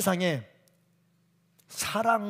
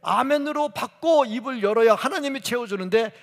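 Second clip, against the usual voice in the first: climbing higher and louder with each phrase; rising sermon build; 6 semitones higher, 5 dB louder than usual. Acted. Preacher rousing the congregation, building to a loud peak. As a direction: build the list to a fervent peak.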